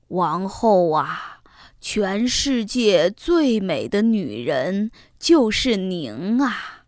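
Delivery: slow, strange voice from the mirror; shimmering echoing mirror voice. Acted. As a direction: answer slowly, like a magic mirror. Magic mirror answers the queen.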